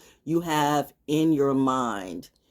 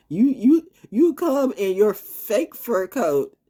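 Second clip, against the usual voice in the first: mock confrontation; 7 semitones higher, 5 dB louder, slower than usual. Confronting the fur-coat grifter.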